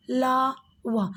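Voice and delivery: ला, वा stretched out very slowly; slow drawn-out letters. Shown as a demonstration. Teacher shows the class how य र ल व sound, very slowly. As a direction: draw out ला and वा, one at a time. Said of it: "जब आप य, र, ल, व का उच्चारण करेंगे".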